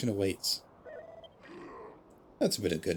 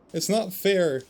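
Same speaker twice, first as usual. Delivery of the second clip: much higher, louder wail on "not"; the repeat pushed higher and louder in grief; anguished protest, bigger; 9 semitones higher, 5 dB louder, slower than usual. Acted. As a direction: break into a pained cry, hitting "not". Grieving character protests loss.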